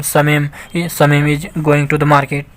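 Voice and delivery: very slow, each word apart; slow dictation voice; slow reading. Shown as a demonstration. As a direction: read it out slowly for learners. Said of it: "teacher reads example sentence".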